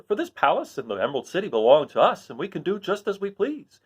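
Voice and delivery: lightly voiced cheery Scarecrow. Scarecrow telling friends he is satisfied. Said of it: "said the new ruler".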